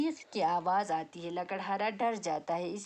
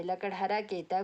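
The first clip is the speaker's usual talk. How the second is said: ordinary delivery, nothing marked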